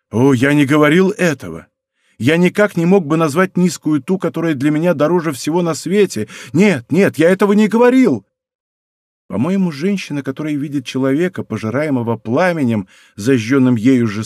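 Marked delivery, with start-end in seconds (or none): 0.1-8.3 rising into a louder, higher denial; de Guiche insists to the princess, louder and higher; passionate protest. Acted. Building, pleading, faster at the end.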